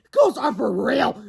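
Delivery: scoffing at the ghost tale; sarcastic mock.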